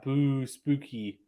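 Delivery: slow, drawn-out playful ghostly boo; lightly spook the chat, stretching the words; mock spooky. Reading a Halloween chat comment.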